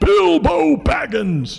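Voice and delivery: put-on grand, big, booming, loud wizard voice. Retelling someone who suddenly becomes the wizard as the house creaks: big booming wizard voice. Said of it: "in this big booming voice".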